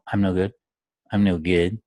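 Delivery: low, heavy self-blame. Shown as a demonstration. Coach contrasting heavy self-talk, heavy. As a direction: drag the words down. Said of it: "That's heavy, isn't it?".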